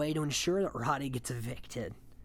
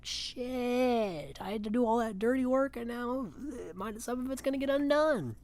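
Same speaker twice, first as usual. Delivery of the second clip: high mock whine of complaint; lightly hammed-up whiny houseguest; whiny Josh impression; 8 semitones higher than usual. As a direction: pitch way up into a whining gripe. Josh griping, quoted by recapper.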